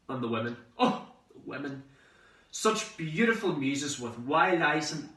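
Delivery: dad reminiscing. Retold or imitated. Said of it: "He sounded as if he was a hundred years old".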